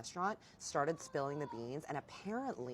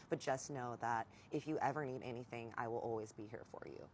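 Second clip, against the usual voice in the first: lower, softer, winding down; retold tender reassurance; 3 semitones lower, 4 dB quieter than usual. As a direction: imitate an ex promising support gently.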